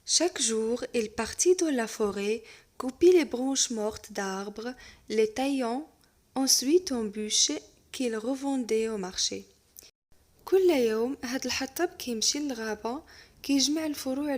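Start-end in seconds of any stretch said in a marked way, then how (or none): 0.1-9.4 lecture de conte. Acted. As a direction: lecture lente et posée d'un conte. Reading the tale aloud. (maître qui lit un conte lentement à sa classe)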